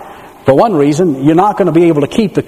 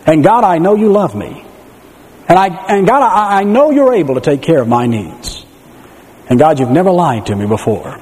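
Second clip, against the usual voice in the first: trusting prayer. Retold or imitated. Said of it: "faith is a matter of saying".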